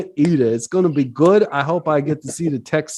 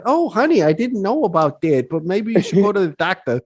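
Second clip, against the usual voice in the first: a sweet, higher motherly voice; lightly voiced sweet mother, gently concerned; sweet mom; 4 semitones higher than usual. Mom sweetly hears her son's odd confession, light higher mom voice. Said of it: "she'd be still sweet about it".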